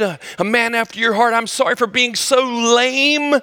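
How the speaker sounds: hammed-up plea to be a hero of faith; mock dramatic prayer. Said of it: "I'm all dramatic".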